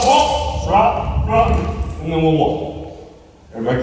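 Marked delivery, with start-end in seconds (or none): 0.0-1.6 demo yell. Shown as a demonstration. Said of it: "You gotta yell".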